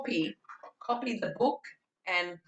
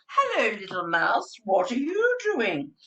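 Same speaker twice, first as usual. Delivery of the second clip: big bear voice; 4 semitones higher than usual. Shown as a demonstration. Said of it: "I bought the actual".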